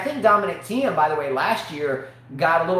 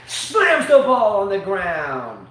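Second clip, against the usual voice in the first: dragged-out; 4 dB louder, much slower than usual. Acted. Acting out the player's tantrum.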